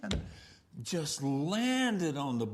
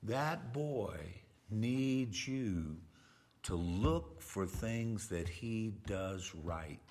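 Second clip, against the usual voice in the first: gentle counsel; 6 semitones lower, 4 dB quieter, slower than usual. Retold or imitated. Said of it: "and I said".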